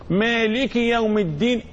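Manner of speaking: "مالك يوم الدين" with an audible short i after ك; kasra on the kaf. Shown as a demonstration. Teacher correcting a silent kaf, clear kasra. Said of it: "الكاف مش ساكنة".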